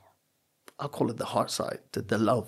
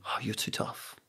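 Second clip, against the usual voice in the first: mock complaint; 8 dB quieter than usual. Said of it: "now people say".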